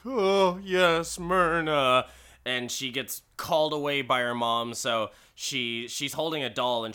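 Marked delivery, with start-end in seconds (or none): 0.0-2.1 imitated delight. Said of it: "he's just like".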